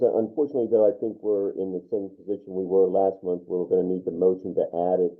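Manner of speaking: muffled, garbled like underwater; bad connection, muffled sound. Real, not acted. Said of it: "it sounds like you're underwater".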